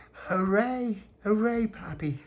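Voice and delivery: high-pitched, delighted hooray; excited cheer. Acted. Mammy cheering pappy's story news, excited cheer.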